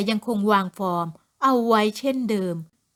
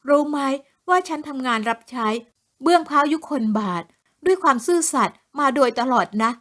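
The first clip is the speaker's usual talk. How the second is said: indignant plea; 3 semitones higher than usual. Acted. Woman protesting her loyal service to the officers, indignant. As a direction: insist on your loyalty.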